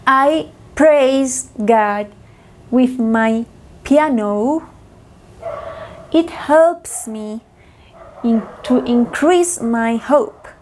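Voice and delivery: very slow, phrase by phrase with pauses; slow practice model. Shown as a demonstration. Teacher modelling practice sentences for students to repeat, slowly. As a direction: spell it out slowly for learners to copy. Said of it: "yo repito tres veces".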